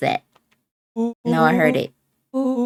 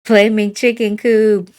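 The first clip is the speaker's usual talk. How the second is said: screech; 4 semitones higher, 6 dB louder than usual. Acted. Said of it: "He screeched as he charged".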